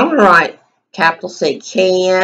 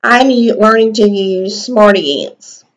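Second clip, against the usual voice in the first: slow dictation; 4 dB louder than usual. Shown as a demonstration. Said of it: "Make sure you space between your words".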